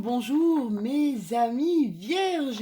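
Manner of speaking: high, loud, rising bonjour; bright greeting. Real, not acted. Vlogger greeting her viewers, high and loud. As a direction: sing out the hello to your viewers.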